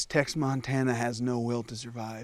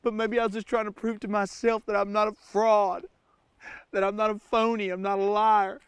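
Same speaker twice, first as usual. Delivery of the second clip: fake Southern accent. Stranded survival-show host confessing to camera, put-on Southern accent. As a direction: play the rugged Southern survivalist. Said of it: "I don't even have an accent".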